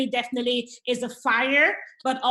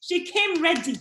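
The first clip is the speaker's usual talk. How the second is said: put-on playful African accent, slower; slower than usual. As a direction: slip into a light African accent. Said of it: "Let me switch to my, to my African accent right now".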